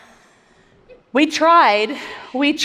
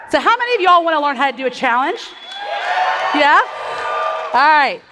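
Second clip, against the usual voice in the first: calling out to crowd; 3 semitones higher, faster than usual. Real, not acted. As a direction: fire up the room. Rallying a live audience.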